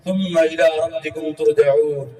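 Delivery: measured Arabic scripture recitation; Quran recitation. Acted. Preacher quoting scripture to listeners, solemn recitation. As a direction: recite the verse evenly, drawing out vowels.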